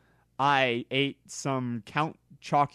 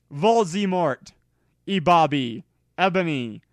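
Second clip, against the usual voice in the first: evil raspy voice; 3 semitones higher, 6 dB louder than usual. Acted. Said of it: "said evilly in his raspy voice".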